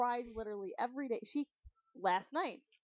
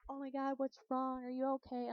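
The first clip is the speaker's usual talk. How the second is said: higher-pitched imitated fussing; mock concern; 4 semitones higher, 3 dB quieter than usual. Onlookers asking someone crying, high mock concern.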